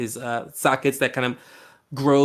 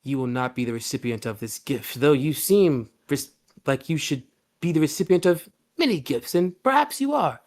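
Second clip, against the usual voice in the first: eerie host; 3 semitones higher than usual. Acted. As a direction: sound oddly delighted. Host talking to cheese-suit PC.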